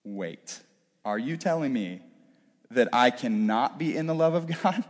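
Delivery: low, hushed, hesitant double-take; insecure inner voice. Acted. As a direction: stop short and question it under your breath. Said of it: "my mind immediately goes to".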